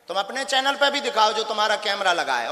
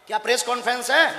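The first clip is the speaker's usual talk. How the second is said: 1 sharp repeated question; 4 semitones higher, faster than usual. Real, not acted. Guru repeats mocking question.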